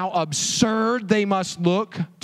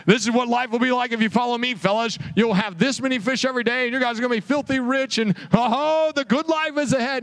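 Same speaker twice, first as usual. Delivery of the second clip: higher, fast hammed-up prosperity pitch; mock sales pitch; 5 semitones higher than usual. Mock Jesus promising riches to fishermen, hammed-up. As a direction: sell it like a cheesy promise, mockingly. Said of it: "This is not Jesus trying to just".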